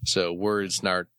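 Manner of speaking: worn-out weary delivery; exhausted. Real, not acted. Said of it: "I'm very exhausted right now".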